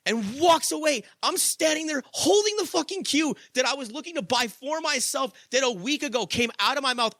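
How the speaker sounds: worked up, voice climbing with amazement; passionate. Real, not acted. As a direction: pour real passion into it. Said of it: "I'm speaking with crazy amounts of passion".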